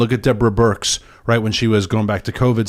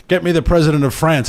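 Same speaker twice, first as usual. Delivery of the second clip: skit president on phone; 5 semitones higher than usual. Acted. President on his fake phone demanding a call, mock-commanding. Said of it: "when he calls and he's like".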